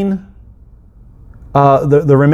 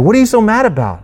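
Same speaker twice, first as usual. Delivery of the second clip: mock puzzled question; 7 semitones higher, faster than usual. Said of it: "you're just like".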